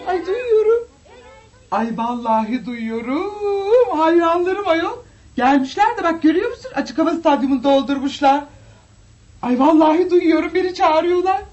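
high, teary excitement; tearful diva joy. Acted. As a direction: overcome by her adoring fans. Diva moved by fans' calls.

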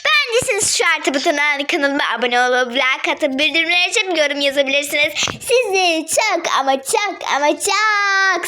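bright, upbeat channel sign-off; youtuber outro. Acted. Kid closing her video to subscribers, upbeat outro. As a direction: wrap up the video cheerfully for fans.

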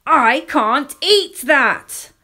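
loud, slow wailed refusal; acted tantrum of a crying child; tearful protest. A narrator's reading. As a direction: wail it high, stretching each word. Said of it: "I cried and cried and said".

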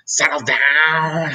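slow, stretched stern order; strict teacher calming a noisy class, slow and stern; teacher's roar. A narrator's reading. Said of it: "Miss Kirby roared".

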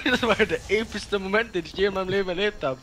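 bursting with excitement; excited. Real, not acted. Excitedly recounting epic game moment.

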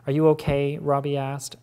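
measured, even novel reading; story narration. A narrator's reading. Reader narrating a novel to an audience, even storytelling voice. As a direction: read the scene out for the listeners.

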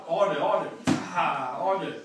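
shouted drill commands; loud call. Real, not acted. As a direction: bark the count out loud. Coach calling out drills.

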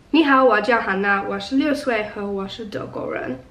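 "Ni hao" with Mandarin tones, unsure; speaking Mandarin. Shown as a demonstration. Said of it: "asking if I could film myself speaking them".

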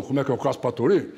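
lightly voiced buddy, echoing the question; answering caboclo. Second caboclo echoing his friend's question, lightly acted. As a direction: hand the question back in an easy, unraised voice. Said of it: "O outro falou".

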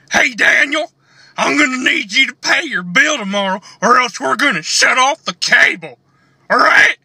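a hint of a pushy landlord; lightly voiced landlord leaning on his tenant; intense landlord. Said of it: "a landlord character".

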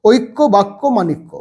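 ঐক্য, বাক্য, মাণিক্য rattled off quickly, one after another; quick drill reading of ঐক্য বাক্য মাণিক্য. Shown as a demonstration. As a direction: run the words ঐক্য বাক্য মাণিক্য together at speed. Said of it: "এবার তাড়াতাড়ি পড়ো".

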